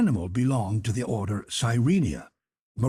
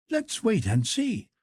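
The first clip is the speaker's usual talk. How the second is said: higher, lightly voiced young servant; a light, higher-pitched valet voice; Conseil's voice; 13 semitones higher than usual.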